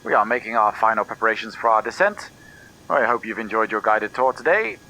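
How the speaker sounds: lightly voiced captain's cabin announcement; airport announcement. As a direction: read it like a pilot on the intercom. Pilot's cabin address.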